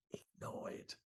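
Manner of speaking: whispered tip; whispered reminder to the audience. Shown as a demonstration. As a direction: whisper it like a secret instruction. Whispered aside during sales demo.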